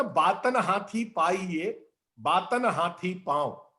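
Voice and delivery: slow, measured recital of a saying; proverb recitation. Acted. Speaker quotes an old saying to the host, slow recitation. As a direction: recite it slowly, word by word.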